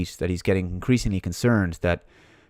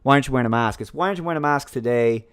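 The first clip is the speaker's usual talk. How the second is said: mock nagging; 4 semitones higher than usual. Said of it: "scream at someone, go".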